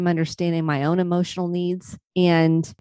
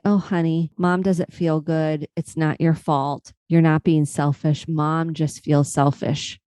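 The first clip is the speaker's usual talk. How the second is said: tender comfort; 2 semitones lower than usual. Retold or imitated. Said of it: "my adult self was able to come in and offer her".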